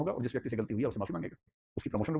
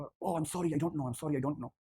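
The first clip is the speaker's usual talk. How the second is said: very polite apology; 2 semitones higher, 5 dB quieter, much slower than usual. Retold or imitated. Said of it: "तो आए बड़े प्यार से".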